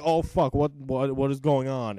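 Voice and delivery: mock-panicked what-what-what; jolted awake by an alarm; startled panic. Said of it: "And I was like".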